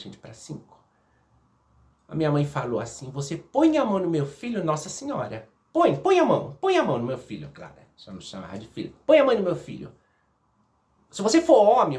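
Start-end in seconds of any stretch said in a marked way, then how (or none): 3.1-7.5 defiant shout. Retold or imitated. Mother dares the uncle to hit her son, shouting. 9.1-12.0 high, loud dare; defiant shout. Retold or imitated. Mother challenges the uncle to be a man, loud high shout.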